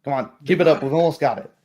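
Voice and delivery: guard calling out to spur the fighters on; rallying call. Acted. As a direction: urge them on mid-fight.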